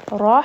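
loud, airy "Rahteh" pushed from the throat; throaty Arabic ha; breathy middle-throat ha. Shown as a demonstration. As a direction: blow the ha out with force. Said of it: "a lot higher up, a lot more breathy".

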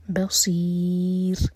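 voiced, very slow tajweed recitation; slow Quran recitation. Shown as a demonstration. Teacher recites the verse to show the rules, slowly. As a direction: draw each syllable out carefully. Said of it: "را ساکن light".

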